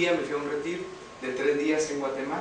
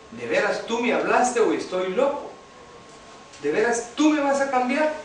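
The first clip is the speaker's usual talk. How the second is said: retold earnest plea, lifting higher and louder at the end; heartfelt questioning; 4 semitones higher, 3 dB louder than usual. Man asks God whether he will really change him, heartfelt questioning. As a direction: imitate asking with all your heart, building in pitch. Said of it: "con todo mi corazón".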